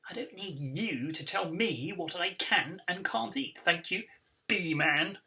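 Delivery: snapping. Acted. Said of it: "he snaps".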